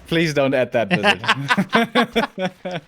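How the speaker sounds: laughing through a joking plea. Real, not acted. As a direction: giggle while you beg. Joking plea to the game maker.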